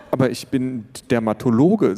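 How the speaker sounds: sheepish neighbour. Acted. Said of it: "sagte Jens".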